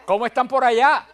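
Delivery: high, loud, overfriendly hello; cheery fake greeting. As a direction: greet them like old friends you don't recognise. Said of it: "qué le pregunté después".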